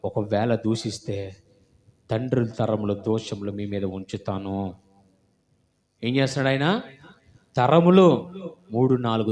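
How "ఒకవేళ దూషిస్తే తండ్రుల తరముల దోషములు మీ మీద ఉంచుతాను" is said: lower, softer, slow solemn divine warning; voice of God. Acted. Preacher voices God warning the congregation, low and grave. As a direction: speak as God, grave and hushed. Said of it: "నేను ఏమన్నాడు తెలుసా?".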